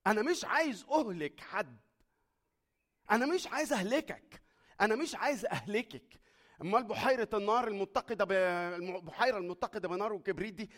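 loud, high, urgent divine plea; voicing God pleading. Preacher voicing God telling sinners he loves them, loud and pleading. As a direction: plead as God who won't destroy anyone.

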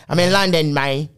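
a botched mock British accent, barely put on; fumbling a London accent for a joke; British accent attempt. Host tries a British accent for the London game, badly. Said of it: "I don't even know the, the damn accent".

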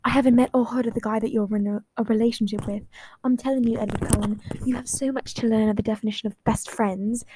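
put-on fading British accent; light British lilt, half-held. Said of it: "the British accent is really coming in and out".

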